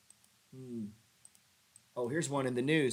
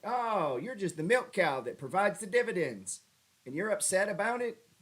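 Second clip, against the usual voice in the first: mocking retort; 6 semitones higher, 3 dB louder than usual. Mocking the upset buyer.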